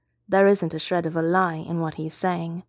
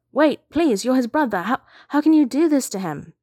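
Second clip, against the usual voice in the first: high, loud, pleading protest; shouted plea; 7 semitones higher, 5 dB louder than usual. A narrator's reading. Meryl begs the brother taking Vash away, shouting. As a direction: plead loudly with pitch riding high. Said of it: "Meryl shouts".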